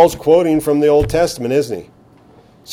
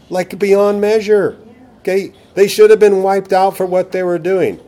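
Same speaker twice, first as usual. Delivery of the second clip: emphatic high exclaim; 7 semitones higher, 3 dB louder than usual. Real, not acted. Emphatic point in sermon.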